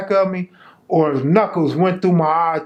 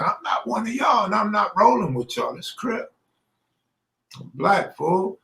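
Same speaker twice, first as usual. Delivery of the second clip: retold shout; 6 semitones higher than usual. Retold standoff with gang member.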